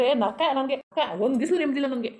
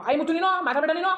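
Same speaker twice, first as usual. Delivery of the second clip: sharp, higher angry order to shut up; angry outburst; 5 semitones higher than usual. Acted. Drunk father silencing his family, angry higher bark. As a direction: cut them off in anger.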